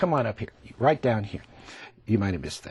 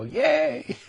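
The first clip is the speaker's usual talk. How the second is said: high, happy cheer; cheering flowers; 13 semitones higher than usual. Pretend. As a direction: squeal with joy as the roses. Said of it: "and they all go".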